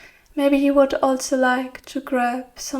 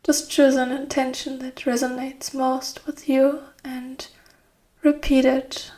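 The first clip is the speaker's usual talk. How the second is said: guided meditation. Acted. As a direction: guide them gently into rest, phrase by phrase. Leads guided relaxation.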